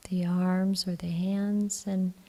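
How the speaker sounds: calm, even meditation voice with long pauses; guided meditation. Acted. Teacher guiding the group to relax the body, calm meditation voice. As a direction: gently guide them into relaxing, leaving long silences.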